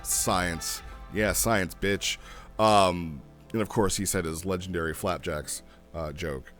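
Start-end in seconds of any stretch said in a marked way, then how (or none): none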